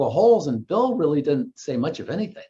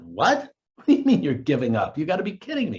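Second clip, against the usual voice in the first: mildly incredulous retold reaction; retold disbelief. Golfer hears his buddy is giving up, mock incredulous. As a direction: play back your disbelief, rising on the protest.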